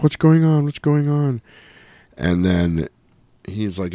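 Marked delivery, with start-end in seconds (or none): 0.0-1.4 put-on panicked kid. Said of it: "Sarah's like".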